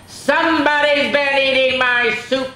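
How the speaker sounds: loud, high-pitched Papa bellow. Acted. Papa finding his soup eaten, bellowing. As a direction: bellow it out in outrage. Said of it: "bellowed Papa".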